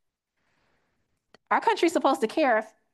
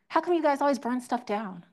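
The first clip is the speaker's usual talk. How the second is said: a raised, prying imitation of the doubters; mock questioning voice; 3 semitones higher than usual. Teacher mocks the voice asking why Black people burn things, mock questioning. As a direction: mimic the voice she hears it in. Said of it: "Do you like my voice? ... that's the voice that I hear it in".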